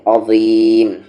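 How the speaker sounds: अज़ीम with a heavy, thick ज़; firm heavy articulation. Shown as a demonstration. Teacher asking for firmness, heavy ज़ in अज़ीम. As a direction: press the ज़ in अज़ीम firmly. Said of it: "मजबूती से".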